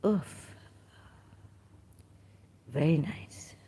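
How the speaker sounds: usual speaking voice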